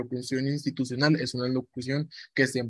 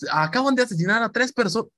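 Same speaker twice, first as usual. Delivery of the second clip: overdone news voice; 7 semitones higher than usual. Shown as a demonstration. Teacher showing students a wrong, forced news read. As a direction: read it like a melodramatic newscaster. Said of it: "como hablando así en un programa de noticias".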